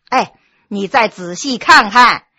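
ordinary delivery

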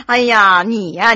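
laughing exasperated sigh; bursting laugh. Acted. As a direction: snort of laughter into the words. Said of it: "乐敏扑哧一笑".

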